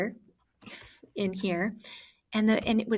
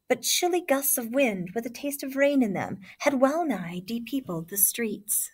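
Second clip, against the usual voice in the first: story narration; 3 semitones higher than usual. Acted. Reads story opening aloud.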